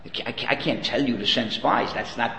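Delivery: a lightly voiced God, stammering quietly; God hedging softly to Moses; hesitant God. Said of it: "God says".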